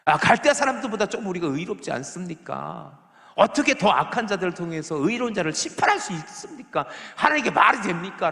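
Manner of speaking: rising outrage as the prophet pleads his case; Habakkuk complaining. Retold or imitated. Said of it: "또 불평하는 거야". (하나님께 불평하며 항의하는 하박국)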